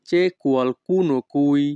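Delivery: each Italian word spoken slowly and clearly; teacher modelling Italian for learners, very slow; slow demo. Shown as a demonstration. Bengali teacher models Italian phrase for students, slow and careful. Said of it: "Italian ভাষা".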